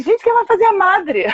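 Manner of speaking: mock-dramatic musing, pitched high; playful high-voiced inner question; wondering aloud. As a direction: ask the room in a high, theatrical wonder. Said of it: "eu pensei".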